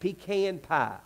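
pecan pie with pecan as pee-KAN; Southern pecan. Shown as a demonstration. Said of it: "not pecan".

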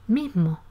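teacher demonstrating mismo with a softened, aspirated S; weakened S. Shown as a demonstration. Teacher showing students how S weakens, aspirated S. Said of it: "dirá".

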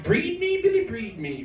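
breed me jumps high then falls back; a hammed-up pleading moan; lightly mocking the lover's plea. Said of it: "she was like".

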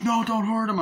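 high, urgent mock plea; hammed-up alarmed cry; acted pleading. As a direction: imitate someone begging for mercy. Retold plea at gunpoint.

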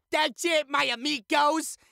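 high, loud, showy exclamation; exuberant sign-off. Pretend. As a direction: wrap it up with a big high flourish. Mock-Spanish sign-off cheer.

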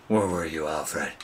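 a lightly put-on hero, held back; quietly demanding, a hint of Batman. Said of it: "Talking in my Batman voice".

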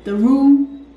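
switching impression voices. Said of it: "I know who you're trying to be".

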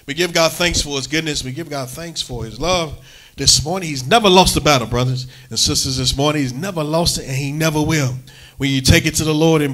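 rhythmic praise cadence from the pulpit; preaching. Acted. Pastor praising God before the church. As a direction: lift God's goodness to the church.

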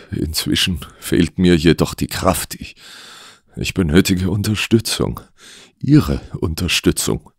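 earnest, slightly strained client voice; ailing client. Acted. Sick policeman asks the detective for support, pleading.

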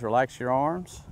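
slow, soothing coach's cue on arms; slow calming cue. Real, not acted. Golf coach calming his student before the putt, slow and soothing. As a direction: ease him into the stroke, slowly. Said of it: "coach cues the student's putt".

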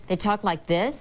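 rising tune at end of "they talk like this"; uptalk. Shown as a demonstration. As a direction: end "this" on an upward lift. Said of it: "Every sentence ends in an up".

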